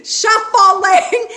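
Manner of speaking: high laughing repeat of shuffling; giggling as she fixes the word; laughing correction. Real, not acted. Psychic laughing at her own slip. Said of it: "Is anyone shoveling snow out there?".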